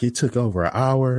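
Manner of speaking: high-pitched retold protest; imitated customer complaint. Retold customer argument, higher voice.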